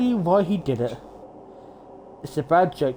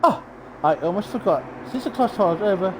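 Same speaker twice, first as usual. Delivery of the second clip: lightly raised, smug cartoon bear; gloating villain, a touch higher; mascot villain voice; 6 semitones higher than usual.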